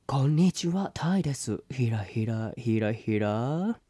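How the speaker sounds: mock sea bream. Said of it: "おい、それお前じゃん".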